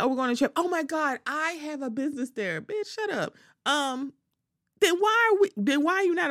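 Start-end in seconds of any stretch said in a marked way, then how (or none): 0.0-2.6 mock Larsa voice. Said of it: "I'm like". 2.6-3.3 exasperated snap. Real, not acted. Exasperated retort to the quote.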